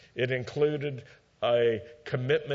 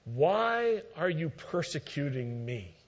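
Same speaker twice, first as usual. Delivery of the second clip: divine voice calling; 4 dB quieter than usual. Retold or imitated. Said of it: "asks this question".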